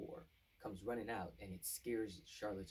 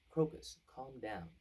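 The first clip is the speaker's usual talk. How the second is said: calming call; 5 semitones higher, 7 dB louder, slower than usual. Retold or imitated. Ricket calming Crocus.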